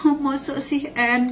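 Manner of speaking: high, drawn-out mock-weepy whine; tangisan tiruan. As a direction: imitate a friend wailing her complaint. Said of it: "Dia nangis-nangis". (merengek pura-pura menangis)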